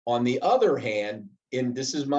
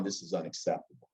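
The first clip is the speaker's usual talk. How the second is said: quick, much lower and softer, calm but firm; 6 semitones lower, 9 dB quieter, faster than usual. Shown as a demonstration. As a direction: lay down the line quietly and keep your cool. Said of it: "I'm gonna be calm".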